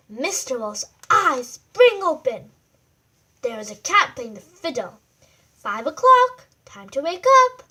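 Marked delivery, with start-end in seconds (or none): 5.5-7.6 much louder, higher call; loud wake-up call. Acted. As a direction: rouse the sleeper. Waking wolf up.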